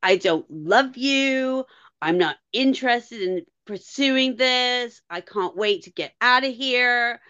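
slow, cold mock-cruel delivery; a hint of a mean dumper, slowed right down; mean Duncan voice. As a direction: drag it out like a heartless ex. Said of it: "the voice she does when she does Duncan being mean".

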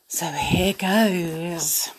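hushed whisper before the story; whispered start of the story. Real, not acted. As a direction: breathe it out as a secret.

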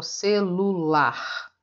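"celular" broken into slow syllables, final LAR held; teacher's slow demonstration of "celular". Shown as a demonstration. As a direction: stretch out "celular" so LAR stands out. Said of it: "O que que é o mais forte".

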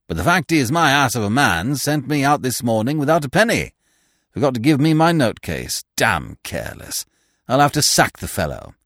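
lightly voiced blustering chap; a hint of hearty sponger; jovial stranger. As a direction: bluster out an excuse, a touch high.

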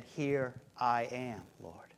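slow, soft and low surrender; Mary's soft hushed answer to God; humble whisper-soft reply. Retold or imitated. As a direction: breathe it out as humble Mary.

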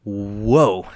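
slow, amazed disbelief; drawn-out astonished exclaiming; mock excited exclaim. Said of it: "I yelled something".

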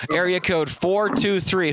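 slow, drawn-out call for the caller; slowly calling the next caller's area code. Real, not acted.

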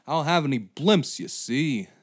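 fast-talking huckster, a touch of Dangerfield; old-timey con man. Acted. Comedian voicing a blimp promoter as a con man. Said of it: "sound like an old-timey con man".

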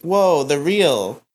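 slow drawn-out whoa; hammed-up slow surprise; mock amazement. Imitating player's amazement.

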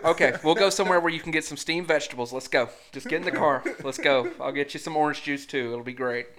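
loud, hurried, mock-agreeable rattle; exasperated parent giving in. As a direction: act out a parent hustling the child along.

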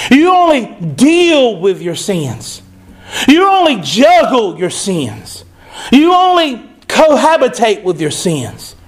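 slow, measured preaching. Acted. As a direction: lay each line down slowly for the church. Preaching the climax.

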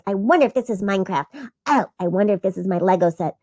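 put-on fast, eager kid chatter; excited little sister; eager wondering. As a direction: rattle off guesses quickly. Excited sister shaking presents.

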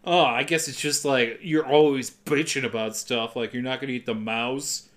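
low, grumbling guilt trip; understated passive-aggressive jab. Retold or imitated. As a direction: needle her with an imitated sulky remark. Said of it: "he passive-aggressively attacks her".

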